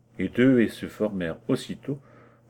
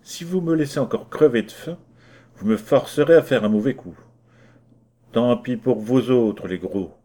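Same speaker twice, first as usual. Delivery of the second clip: firmly; 4 dB louder than usual. Acted. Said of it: "reprit avec fermeté".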